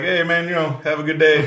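imitating a polite, nice brush-off; trying nice. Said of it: "Try to be really nice".

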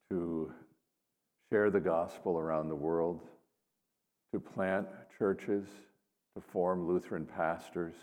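measured, solemn prayer. Acted. Leads an opening prayer.

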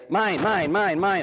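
hammed-up possessive child; greedy child mine. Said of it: "when we want to play God and we say".

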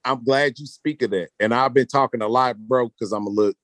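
a little tipsy, loose and chatty. Real, not acted. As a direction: talk like you've had a couple drinks. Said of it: "little tipsy".

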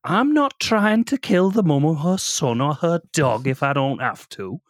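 Babadook voice. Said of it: "you've nailed this voice".

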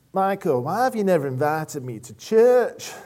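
imitated Yorkshire man; Yorkshire accent. Client stopping him in the street, put-on Yorkshire accent. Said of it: "I'm sorry, that was a Yorkshire accent".

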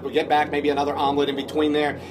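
lightly imitated actor addressing the whole cabin; playing to the crowd, mock-serious deliberation; Vince Vaughn. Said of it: "It's that Vince, Vince Vaughn voice".

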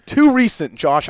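high, loud mock protest; imitated co-host objection. Teasing co-host by predicting his objection, high mock protest. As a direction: mimic a friend jumping in to object. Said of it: "you're gonna say".

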